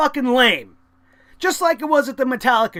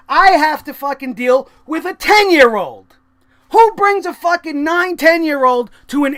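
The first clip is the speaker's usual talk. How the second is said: ranting shout; 4 dB louder than usual. Real, not acted. Ranting about seating.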